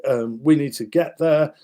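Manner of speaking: rally the men, we're late; hurried soldiers. Retold or imitated. Soldiers hurrying each other to the surrender, loud and urgent. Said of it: "And they're going".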